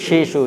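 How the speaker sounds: "শিশু" with full sh sounds, as "shishu"; correct thick sh. Shown as a demonstration. Teacher models the tree's name for pupils, "শিশু" with thick sh. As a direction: say "শিশু" with a thick sh in both syllables. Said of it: "কি বলতে হবে?".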